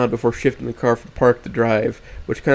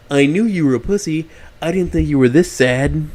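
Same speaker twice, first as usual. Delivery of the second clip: louder, sneering ghost voice; smug taunting; 4 semitones higher, 5 dB louder than usual. A narrator's reading. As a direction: sneer at him.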